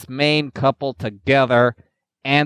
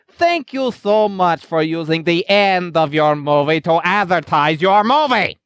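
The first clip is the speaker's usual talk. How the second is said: sarcastic thanks; 5 semitones higher, 3 dB louder than usual. Acted.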